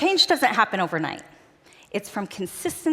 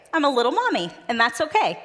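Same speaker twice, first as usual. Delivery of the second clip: put-on reassuring the kids; 5 semitones higher, 3 dB louder than usual. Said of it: "And I'd say".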